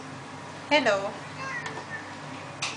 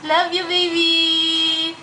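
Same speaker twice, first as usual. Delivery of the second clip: tender goodbye; much slower than usual. Real, not acted. Saying goodbye to baby.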